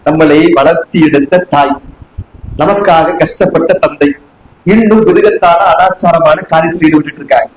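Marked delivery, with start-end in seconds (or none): 0.1-4.1 low, slow, weighty delivery; measured, earnest and low-pitched; solemn, heartfelt. Real, not acted. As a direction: lower the voice and slow down to honour parents. Solemnly recalling parents' sacrifices.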